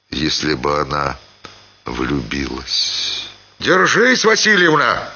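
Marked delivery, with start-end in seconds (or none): 3.6-5.1 громкий окрик, намного выше; крикнуть предупреждение на спуске. A narrator's reading. Семён окликает на крутом спуске. (Семён громко окликает Марью Васильевну, гораздо выше)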